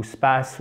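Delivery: "space" with a flat French A, like "spass", as a mistake; wrong vowel. Shown as a demonstration. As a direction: mispronounce "space" as the French would read it, with an A. (« space » prononcé avec un A français, comme une erreur)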